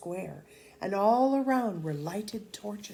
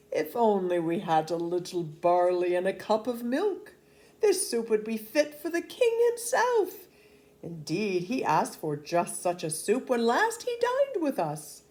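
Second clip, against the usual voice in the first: boastful soldiers; 3 semitones higher, 4 dB louder than usual. Acted. Soldiers impressing the peasants with royal talk, grandly boastful. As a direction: boast about the king with puffed-up grandeur.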